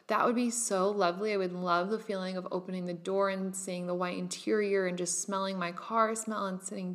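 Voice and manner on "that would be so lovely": dreamy and easy. Retold or imitated. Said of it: "Whereas if I had said".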